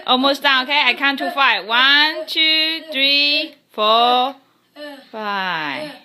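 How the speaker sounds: soothing count. Real, not acted. Counting softly to baby.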